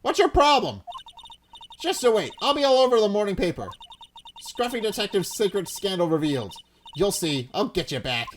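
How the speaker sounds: put-on pushy reporter in a light southern accent. Reporter arguing with the cop in a southern accent. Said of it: "That southern accent can only mean".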